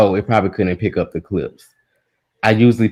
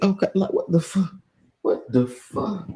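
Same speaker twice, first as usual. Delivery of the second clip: exasperated disbelief; 11 semitones higher, 5 dB quieter than usual. Real, not acted. Reacting to chat's reply.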